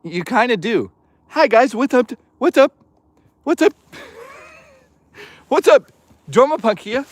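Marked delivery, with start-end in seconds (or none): 1.3-7.1 toothless voice, pitched high; lips over teeth. Retold or imitated. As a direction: talk like you have no teeth, high and goofy. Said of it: "I sound like a gay Dreamcast guy without teeth".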